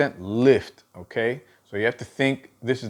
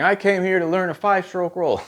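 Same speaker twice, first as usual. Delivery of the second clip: higher-pitched voice of a complaining student; impatient student; 7 semitones higher, faster than usual. Acted. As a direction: pipe up high as a puzzled learner. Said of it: "you might be saying".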